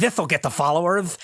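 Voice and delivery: a hint of a lisping cartoon character; Daffy Duck. Reviewer quoting the duck's influencer joke, light cartoon impression. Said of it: "he's like".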